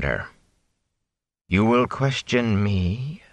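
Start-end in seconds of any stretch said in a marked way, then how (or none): 1.5-3.2 slow menace. Acted. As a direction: dare them to answer. Moraine confronts the Whitecloaks.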